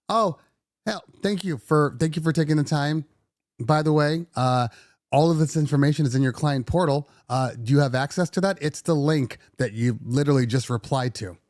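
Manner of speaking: overly sweet politeness through clenched patience; fake polite. Owner forced to answer the client nicely, sugary. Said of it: "I have to say".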